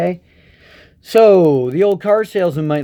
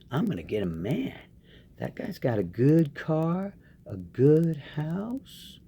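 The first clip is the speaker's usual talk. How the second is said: scheming woman; 6 dB quieter than usual. Retold or imitated. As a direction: purr it softly like a gold digger plotting. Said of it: "women out there who are like".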